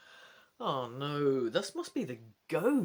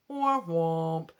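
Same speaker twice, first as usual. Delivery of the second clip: sad trombone; 2 semitones lower, 5 dB louder than usual. Pretend. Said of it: "sad trombone joke".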